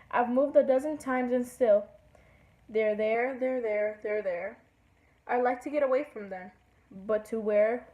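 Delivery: rhythmic verse with falling refrains; singsong poem reading; poem recital. Acted. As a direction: let each repeated rhyme step down and fade. Reads a poem aloud.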